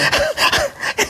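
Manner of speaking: a breathy high giggle; airy high laugh. Real, not acted. (숨섞인 높은 웃음)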